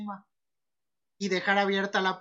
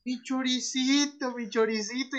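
mock lament; 4 semitones higher, slower than usual. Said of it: "él seguía diciendo".

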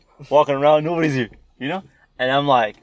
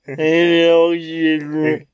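excited; 5 semitones higher, 9 dB louder, much slower than usual. Retold or imitated. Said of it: "Okay, go".

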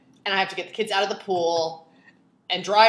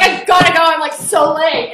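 high, loud, frantic excuse; mock tearful panic; 6 semitones higher, 9 dB louder than usual. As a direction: imitate fleeing before the tears spill. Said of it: "She couldn't keep the tears in".

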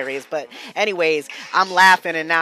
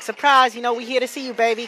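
higher-pitched imitation of excited friends; mock surprise visit, pitched up; playful surprise greeting; 6 semitones higher than usual. Friends dropping by to surprise him, playful greeting. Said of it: "Sometimes it'd be a surprise".

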